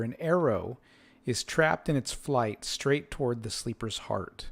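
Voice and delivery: slow descriptive scene-setting; game master narration. A narrator's reading. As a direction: read the boxed text like a storyteller. GM reads room description.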